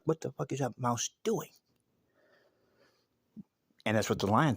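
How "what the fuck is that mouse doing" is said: baffled onlookers. Acted. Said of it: "other animals in the jungle are like".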